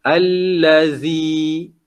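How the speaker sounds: imitated misreading, "allazi" with z as in "zoo"; mistaken plain z. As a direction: draw out "allazi" with a buzzing z. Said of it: "ada yang baca".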